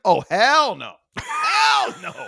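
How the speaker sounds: loud, high comic protest; hammed-up horrified refusal; emphatic mock refusal. Friend watching someone pet a squirrel, mock refusal.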